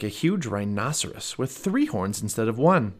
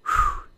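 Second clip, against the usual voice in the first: airy blown kiss. A narrator's reading. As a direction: blow a kiss to a friend. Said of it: "Annie blew him a kiss".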